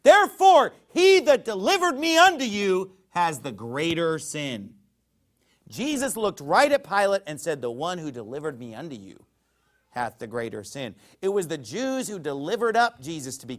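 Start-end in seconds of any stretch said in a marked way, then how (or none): 0.0-4.8 thundering rebuke. Acted. Preacher voicing Jesus answering Pilate, thundering. 7.6-11.0 low and soft, solemn; quiet grave retelling. Acted. Preacher repeating Jesus's words to congregation, hushed.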